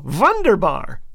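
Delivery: half-yell it as a mock cheer; restrained comic shout of triumph; mild mock yell.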